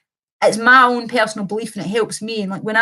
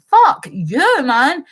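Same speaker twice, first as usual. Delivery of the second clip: high, louder burst of retold anger; retold angry outburst; 4 semitones higher, 4 dB louder, much slower than usual. Streamer retelling her anger at Shapiro and Rogan, angry outburst. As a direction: throw it out as a re-enacted angry retort. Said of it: "I was so fucking angry".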